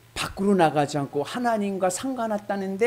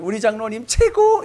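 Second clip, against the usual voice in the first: 신난 아내; 6 semitones higher, 7 dB louder than usual. Pretend. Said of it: "이럴 거야".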